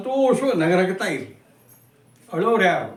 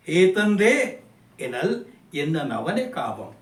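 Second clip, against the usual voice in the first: slow, measured reading of a poem; poem recitation; slower than usual. Acted. Teacher recites the whole poem to students, slow and measured. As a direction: let each line of verse ring out slowly.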